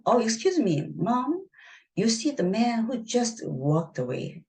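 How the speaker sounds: Gabby sweetly asks a waiter a favour; sweet request. Acted. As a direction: coax the waiter politely.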